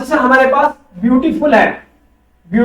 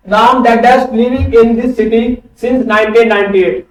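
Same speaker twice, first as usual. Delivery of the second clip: slow question read; much slower than usual. Shown as a demonstration. Teacher reads fill-in question.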